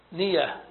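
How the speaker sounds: أنية broken as "أَأْ - نية", second hamza a glottal stop; two separate hamzas. Shown as a demonstration. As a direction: say أنية with a catch and break before نية. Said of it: "يعني بهمزتين". (أنية بهمزتين منفصلتين، الثانية ساكنة)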